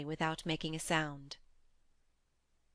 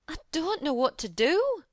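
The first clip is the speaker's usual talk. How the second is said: much higher, louder Yorkshire fret; agitated; 9 semitones higher, 4 dB louder than usual. A narrator's reading. Martha cries out in worry to Mary. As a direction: at her wits' end. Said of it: "cried agitated Martha".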